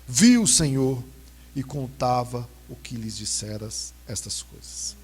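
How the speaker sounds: slow, solemn Bible reading; scripture reading. Acted. Pastor reads the resurrection passage to the church, solemn and measured. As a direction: read the Gospel to the congregation.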